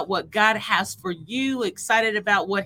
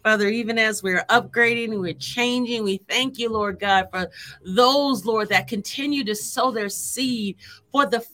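fervent prayer; 3 semitones higher than usual. Acted. Prayer building to fervour.

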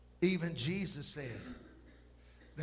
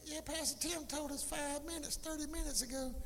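high, put-on voice of a bored listener; playful impression of church folks checking the clock; mocking the congregation; 12 semitones higher, 4 dB quieter than usual. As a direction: tease the crowd in their impatient voice. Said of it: "you're like".

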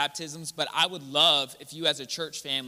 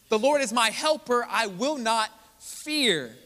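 louder, higher declaration; 4 semitones higher, 4 dB louder, slower than usual. Shown as a demonstration. Preacher repeating the verse to the church, loud and high. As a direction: proclaim "The Lord is my helper. I will not fear." louder, higher, slow on "I will not fear".

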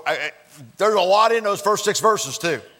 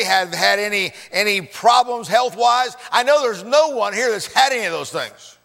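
mock disbelief; 4 semitones higher than usual. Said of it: "Yeah, right".

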